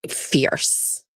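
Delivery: breathy whispered compliment; whispered fierce. Pretend. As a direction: whisper it with attitude. Praising a picture.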